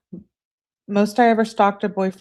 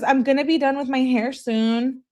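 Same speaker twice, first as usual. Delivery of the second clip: put-on whiny girlfriend voice; 8 semitones higher than usual. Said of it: "that's how I envision her saying it".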